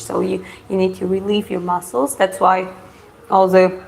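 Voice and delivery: talking with a mouthful of coconut; words round a bite of food; mouth full. Real, not acted. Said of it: "I have pieces of coconut in my mouth".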